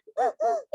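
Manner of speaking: a high, sharp sob-gasp; sobbing gasp. Acted. Mother acting out her sobbing toddler with a high gasp. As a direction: gulp air like a crying child mid-tantrum. Acted crying child.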